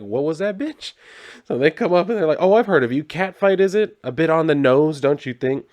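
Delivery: catty mock high voice.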